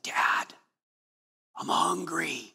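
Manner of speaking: a hint of a whiny kid at the bedside; sleepy child. Child voiced at night.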